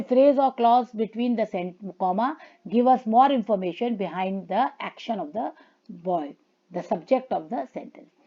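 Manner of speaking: reading the slide word by word, very slowly; slow read-aloud. Shown as a demonstration. Teacher reading English slide to students, slow and deliberate. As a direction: dictate it slowly to the class.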